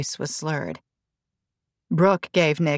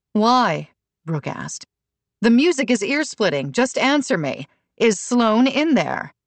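high, louder angry questioning; angry demand; 6 semitones higher, 3 dB louder than usual. A narrator's reading. Brooke confronting Nick about Sloan, angry demand. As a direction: press him hard for an answer.

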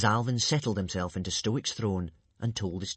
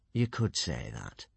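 admitting; 9 semitones lower, slower than usual. Acted. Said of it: "admitted Alvin".

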